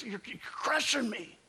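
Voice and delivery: breathy whisper, barely there; whispered plea. Retold or imitated. Job whispering to his friends, a hushed plea. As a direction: whisper it like being crushed.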